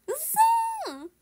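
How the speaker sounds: loud, very high drawn-out exclamation; high, stretched cry of surprise; real shocked disbelief. Real, not acted. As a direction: squeal it in disbelief. Shocked at how late it is.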